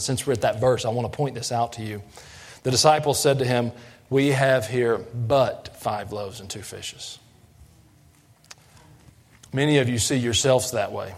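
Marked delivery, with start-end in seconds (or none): 4.1-7.2 slow, doubtful and reluctant; faith-lacking. Shown as a demonstration. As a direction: read it as if it's nothing much. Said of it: "faith-lacking way".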